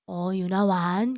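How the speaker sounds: soft, slow, low Pyongan-dialect welcome. Retold or imitated. God greeting Yuna in the chapel, gentle Pyongan dialect. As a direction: answer tenderly in a drawn-out Pyongan accent. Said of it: "하나님은 평안도 사투리 하시더라고요".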